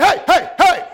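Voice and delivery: loud, high calls for attention; calling out. Acted. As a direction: shout to be heard over the crowd. Blind man calling out to Jesus.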